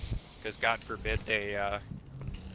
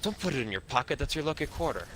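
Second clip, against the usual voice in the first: put-on Irish accent. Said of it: "why you made him sound Irish".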